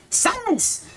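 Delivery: a lightly voiced haughty cat, disdainful. The haughty cat silences the player, lightly voiced disdain. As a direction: look down on him and hush him coldly. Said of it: "I gave her a very haughty attitude".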